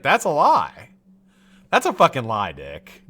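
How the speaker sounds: calling out the lie, loud and heated; angry accusation. Pretend. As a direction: pin him down: that's a lie. Imagined confronting lying senator.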